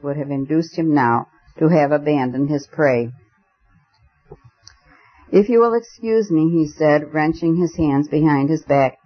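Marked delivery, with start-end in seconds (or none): 5.3-6.5 strained, rising high with barely held excitement; bursting to get the words out; excited. A narrator's reading. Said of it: "white and shaking with excitement".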